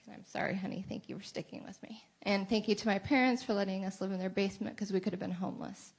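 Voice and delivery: whispered through tears; barely voiced, fighting tears; choked-up whisper. Real, not acted. Tearful thanks to husband, parents.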